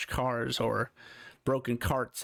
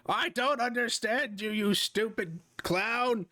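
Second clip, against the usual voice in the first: exasperated character; 10 semitones higher than usual. Acted. Character insults clown.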